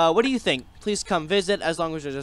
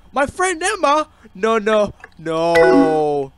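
panicked denial; 5 semitones higher, 9 dB louder, much slower than usual. Acted. Panicked denial about Emma.

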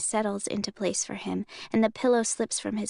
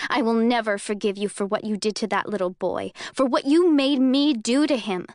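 accusing, rising fury; mounting acid anger; 4 dB louder than usual. Acted. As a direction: let the anger climb to the end. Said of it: "acid in my voice".

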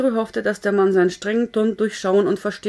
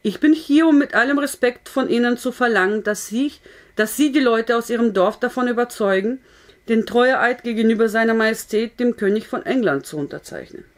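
speaking loudly. Acted. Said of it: "Er sprach jetzt ebenfalls laut".

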